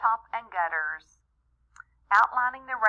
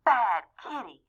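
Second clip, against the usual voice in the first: mild shout; 2 semitones higher than usual. Acted. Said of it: "I shouted".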